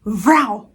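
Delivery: quick spoken "vral" for a yank; imitated ripping noise. Woman yanks the blouse off, imitated ripping noise. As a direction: mimic a sudden rip of clothing. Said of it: "faz assim, ó".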